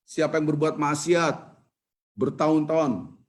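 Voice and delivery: calling out to the whole congregation over a mic; mock mic announcement. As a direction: announce it like testing a microphone to a crowd. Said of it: "Kan pakai mic".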